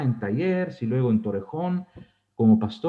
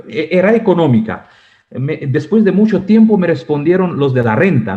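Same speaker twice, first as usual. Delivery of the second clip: louder, chuckling happy telling; laughing while telling; 9 dB louder than usual. Real, not acted. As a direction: share good news through a laugh.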